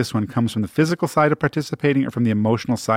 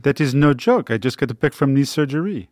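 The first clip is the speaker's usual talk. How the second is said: lightly put-on French accent; mock French accent. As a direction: play a patient with a dubious French accent. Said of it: "that French accent you just did".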